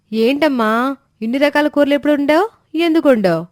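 excited, astonished son-in-law; surprised delight. Acted. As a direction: gush in surprise at all the curries. Surprised at many dishes.

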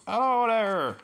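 a loud, high, hammed-up Irish hello; bad stage Irish greeting shouted out; appalling Irish accent. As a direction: greet them in an over-the-top Irish accent. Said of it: "appalling Irish accent".

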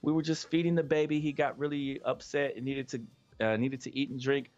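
a lightly voiced wife begging the officer; apologetic wife. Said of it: "So she was like".

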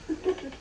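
short high chuckle; chuckling. Real, not acted. Mum amused by her one-of-a-kind design, chuckling. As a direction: chuckle briefly at your own boast. Laughs at own unique design boast.

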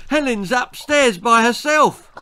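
father's mild yell of alarm. A narrator's reading. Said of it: "he yelled".

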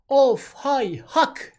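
loud, slow, high cry; drawn-out loud cry; traditional call. Shown as a demonstration. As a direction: call it out long and high like a puppeteer. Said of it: "Girişte".

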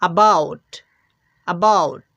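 অ্যাবাউট with a weak first অ্যা; dictionary pronunciation. Shown as a demonstration. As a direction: model অ্যাবাউট, light first syllable. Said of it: "আমরা পাচ্ছি". (অ্যাবাউট দুর্বল প্রথম অক্ষরে)

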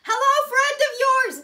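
high, loud and drawn-out hello; squealed greeting. Acted. Reading a fan's comment aloud to her friend, squealing. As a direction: squeal it like an overexcited fan.

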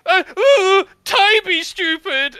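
high, loud, hammed-up tantrum; teary angry voice. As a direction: wail insults like a furious child near tears. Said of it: "with a teary, f-, angry voice".

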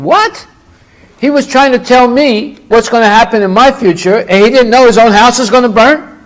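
high, loud acted outrage; indignant disbelief. Client learns the fortune teller's house burned, indignant. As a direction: shoot up on the question, then protest loudly.

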